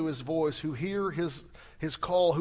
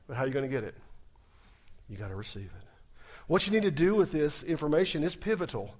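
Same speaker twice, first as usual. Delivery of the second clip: normal talking voice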